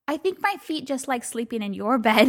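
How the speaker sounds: dissolving into high laughter; punchline that breaks into laughing. Real, not acted.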